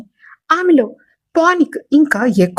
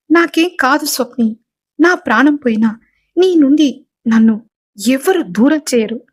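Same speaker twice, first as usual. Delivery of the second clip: mild raised-voice promise; firm declaration. Acted. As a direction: swear it firmly to her. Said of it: "అని గట్టిగా అంటాడు".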